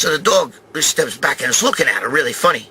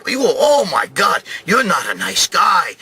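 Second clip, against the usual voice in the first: scolding shout; slower than usual. Retold or imitated. Cop scolding him.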